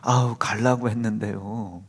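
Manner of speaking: slow, whiny mock excuse. Son making a lame excuse to his father, mock whiny. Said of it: "변명이 기가 막혀".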